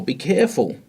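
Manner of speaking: high alarmed be careful; urgent warning. Shown as a demonstration. Warning someone of danger, high urgent call. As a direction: warn of danger. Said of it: "warn someone with urgency".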